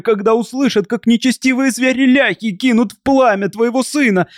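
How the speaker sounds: high, pleading voice throughout; wife begging her husband and father for her son, desperate. A narrator's reading. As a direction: plead for the child in despair. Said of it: "закричала в отчаянии".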